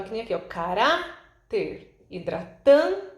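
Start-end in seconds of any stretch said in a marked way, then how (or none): 0.4-2.0 caráter with RÁ lifted and held; stress on penultimate syllable. Shown as a demonstration. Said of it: "Quando ela tá na penúltima sílaba". 2.1-3.1 hidratante with TAN loud and high; stress on penultimate syllable. Shown as a demonstration. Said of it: "a sílaba mais forte".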